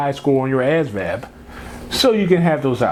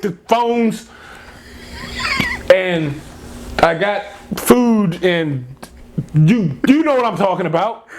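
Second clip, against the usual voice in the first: halting, lightly mimicked muddled politician; Biden impersonation; 4 semitones higher, slower than usual. Host mocking a politician's rambling pitch, halting mild impression. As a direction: grope for words with long gaps. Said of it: "are you doing the Biden impersonation".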